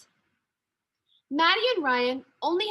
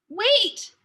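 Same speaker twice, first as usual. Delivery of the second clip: louder, higher call after a friend; 7 semitones higher, 5 dB louder than usual. A narrator's reading. Maddie calling after Sophia on the stairs, louder call. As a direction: call her back before she's gone. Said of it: "Maddie ran after her".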